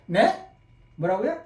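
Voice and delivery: 뭐라고요 rising like a misheard call; puzzled question. Shown as a demonstration. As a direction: ask 뭐라고요 with a lift at the end. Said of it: "전화 받을 때만 생각하세요".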